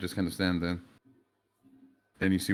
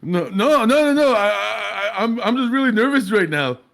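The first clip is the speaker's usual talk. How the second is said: nervous denial; 12 semitones higher, 8 dB louder than usual. Acted. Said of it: "You see that he says such a".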